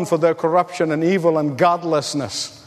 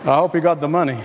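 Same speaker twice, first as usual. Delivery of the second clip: laughing; 5 semitones lower, much faster than usual. Real, not acted. Laughing after his own joke.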